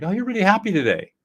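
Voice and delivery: bright, upbeat observation; cheerful affect label. Shown as a demonstration. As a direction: say it like you notice their mood. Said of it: "you can say something like".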